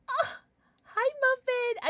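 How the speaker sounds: high, slow cooing, near tears. Real, not acted. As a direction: coo tenderly at the pet. Greeting pet again.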